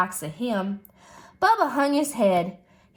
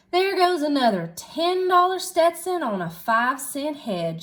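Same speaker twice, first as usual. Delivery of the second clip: complaining; 5 semitones higher than usual. Acted. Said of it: "she complained".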